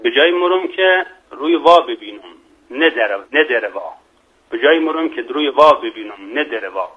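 saying quoted in Mashhadi dialect; Mashhadi accent. Shown as a demonstration. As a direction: show off the Mashhadi accent in a proverb. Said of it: "حالا لهجهٔ مشهدی".

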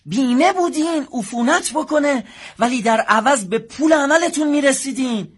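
insistent. Acted. Clerk argues back at patient.

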